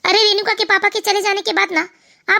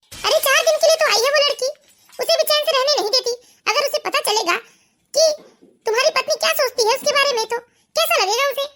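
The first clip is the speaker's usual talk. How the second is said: higher, reproachful scolding; 5 semitones higher than usual. Acted. Mother-in-law scolding daughter-in-law over the guest, reproachful. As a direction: tell her off sharply.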